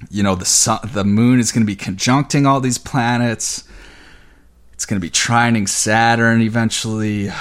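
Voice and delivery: breathless from fast talking; running short on air; out of breath. Real, not acted. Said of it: "I'm getting out of breath".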